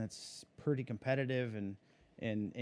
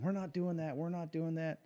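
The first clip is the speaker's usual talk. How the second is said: higher-pitched imitation of panicked protest; mock freak-out; 6 semitones higher than usual. Driver retelling the team's reaction to the Ford news, mock freak-out. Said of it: "Rick Warner was freaking out".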